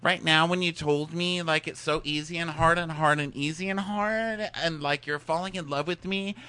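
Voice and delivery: hammed-up wistful girl musing; mock breakup speech. Friend retelling bachelorette breakup, in a high wistful mock voice. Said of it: "she's like".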